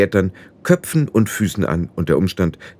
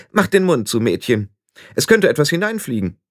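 brusque scolding; 4 semitones higher than usual. Acted. Old witch orders gaping girl.

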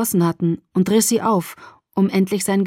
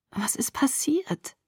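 whisper; 6 semitones higher, 8 dB quieter, slower than usual. A narrator's reading. Dazed girl asking what happened.

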